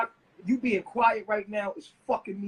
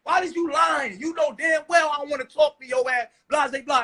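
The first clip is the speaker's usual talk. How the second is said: mock shout; 4 dB louder than usual. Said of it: "step up and be like".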